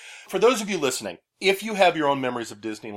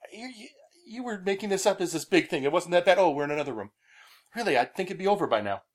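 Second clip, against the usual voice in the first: a lightly voiced, higher grumbling Pete; mock a bored friend, a bit higher; bad Pete impression; 5 semitones higher, faster than usual. Pete grumbling that the ride drags on, a mild bad impression. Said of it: "my bad Pete impersonation".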